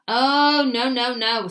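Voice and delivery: high frightened little squeak. A narrator's reading. Little Mouse seeing the snow mouse, squeaking in fear. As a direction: squeak it in dread. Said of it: "squeaked Little Mouse".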